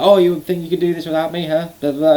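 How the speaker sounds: high-pitched taunting imitation; mock trash talk. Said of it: "Started chatting crap to Edge".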